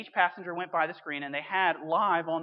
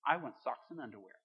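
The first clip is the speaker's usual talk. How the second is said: lower, grumpy curmudgeon voice; 6 semitones lower, 5 dB quieter than usual. Retold or imitated. Grumpy passenger answering Santa, low and dour. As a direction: grumble it like a sour old man. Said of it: "you've always got one curmudgeon".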